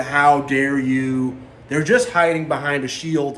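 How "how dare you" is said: 1 mock indignant. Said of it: "they do the".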